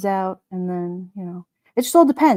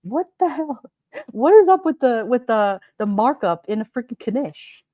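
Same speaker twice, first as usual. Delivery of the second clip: indignant griping, punched at the start; exasperated; 3 semitones higher than usual. Retold or imitated. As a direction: retell it as mock outrage. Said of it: "I'm like".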